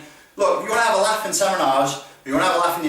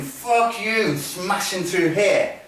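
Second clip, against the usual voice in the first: higher, slow curse through gritted teeth; gritted-teeth aggression; 4 semitones higher, much slower than usual. Shown as a demonstration. Instructor activating emotion in a drill, gritted-teeth aggression. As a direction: drag the words out with violent intent. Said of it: "just by gritting my teeth".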